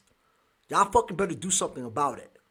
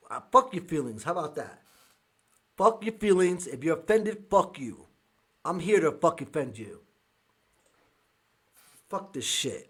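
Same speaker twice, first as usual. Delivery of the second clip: angry. Real, not acted. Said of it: "but I am so angry".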